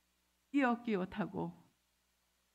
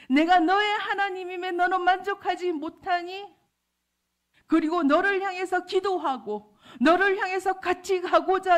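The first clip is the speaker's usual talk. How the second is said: loud, high, impassioned voice of God answering; full-voiced divine rebuke; God's reproach; 9 semitones higher, 9 dB louder than usual. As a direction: press each question home with rising force. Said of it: "그 하나님이 맞더라고요".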